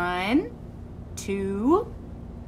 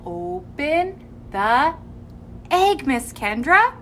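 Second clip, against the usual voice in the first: slow exaggerated speech modeling; 6 semitones higher than usual. Shown as a demonstration.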